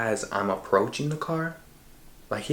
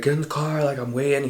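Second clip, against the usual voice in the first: higher, impatient mock yell; aggravated; 5 semitones higher, 4 dB louder, faster than usual. Friend yelling from the car to get in, aggravated. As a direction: imitate an aggravated friend giving orders. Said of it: "He looks super fucking aggravated".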